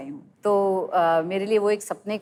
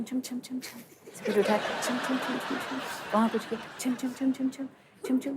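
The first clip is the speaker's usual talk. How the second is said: soft anklet jingle sound; 4 semitones higher, 7 dB quieter than usual. Retold or imitated. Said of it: "तो मैं ऐसे छुम".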